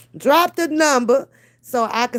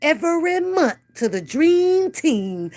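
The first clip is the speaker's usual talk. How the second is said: laughing; 6 semitones higher than usual. Real, not acted. Laughing through the words.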